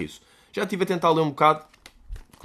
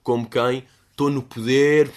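mock villain in power; 4 dB louder, slower than usual. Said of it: "a esfregar as mãos".

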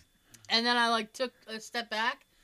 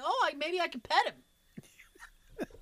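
higher, drawn-out hopeful musing; retold childlike wonder; 6 semitones higher, much slower than usual. Kid eyeing a goose he could pet, retold hopeful musing. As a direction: slowly float the hopeful idea, acted.

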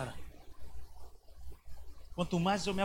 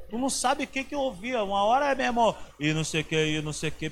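ordinary talk, nothing marked

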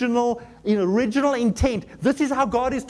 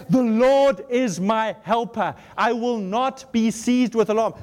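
scripture reading; slower than usual. Acted. Preacher reads verse aloud.

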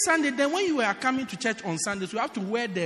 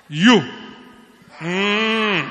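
hammed-up shouted vision; mock prophetic shouting; 9 dB louder than usual. Pastor imitating a shouting prophet to his church. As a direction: bellow like an over-the-top prophet. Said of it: "Lord, you say".

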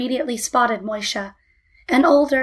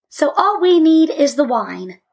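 put-on higher, louder triumphant child; triumphant conclusion, pitched up; 4 semitones higher, 5 dB louder than usual. A narrator's reading. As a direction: crow it triumphantly. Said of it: "said Malka triumphantly".

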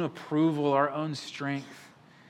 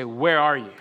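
crying out; 6 dB louder than usual. Shown as a demonstration. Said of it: "cry out to God and say".

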